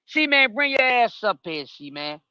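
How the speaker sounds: drawn-out high call across the house. Real, not acted. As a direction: call him up from another room. Calling a friend from upstairs.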